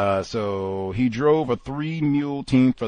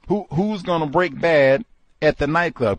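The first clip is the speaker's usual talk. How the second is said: mock tough question; 7 semitones higher, 5 dB louder than usual. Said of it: "Mister Fuller asked".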